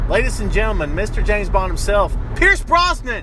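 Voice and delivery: announcer build-up, the name shouted high; bill the guest like a star at a gala; mock grand introduction. Host introducing his friend as a celebrity guest, hammed-up announcer. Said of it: "That third voice that you're hearing is a special guest star".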